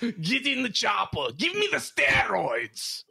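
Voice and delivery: shouted, a bit Russian-sounding; Arnold Schwarzenegger impression. Friend attempting Arnold on demand. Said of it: "I wanna hear it".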